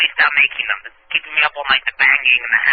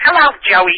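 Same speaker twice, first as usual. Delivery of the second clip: put-on nasal lisping girlish voice, higher and louder; 7 semitones higher, 5 dB louder than usual. Answering what Crystal sounds like, imitating Crystal's nasal lisping voice. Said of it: "She's really nasally".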